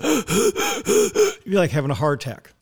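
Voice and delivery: a mock out-of-breath gasp, slow. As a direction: gasp for air like you're about to collapse. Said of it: "you'd be out of breath and you'd be going".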